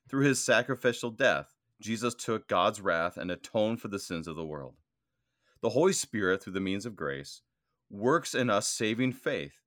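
measured, emphatic reading of a church text; formal reading aloud. Real, not acted. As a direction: read it out in deliberate phrases, weighting key words. Reads the note aloud.

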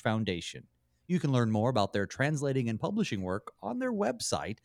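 measured, polished host read with deliberate phrasing; scripted radio intro with varied pitch and slowed phrase endings; radio show introduction. Acted. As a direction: read the programme intro to listeners, lifting key words.

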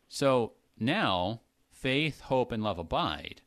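now drawn out and rising, slow; slow, now lifted; stress on now. Shown as a demonstration. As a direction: lean on now. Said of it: "Paul's emphasizing the word now".

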